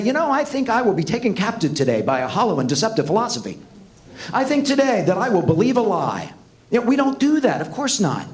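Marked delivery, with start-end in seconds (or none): 0.0-6.3 mock self-talk. Mocking what nobody would say.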